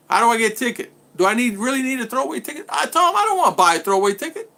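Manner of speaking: high-pitched, hurried helpless questioning; John Green. Retold or imitated. Clueless friend asking Tom how to get a ticket, high-pitched imitation. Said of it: "He couldn't even tie his shoe".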